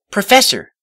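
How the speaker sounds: high, loud call; eager address; Twilight's voice. A narrator's reading. Twilight addresses the professor, high and loud.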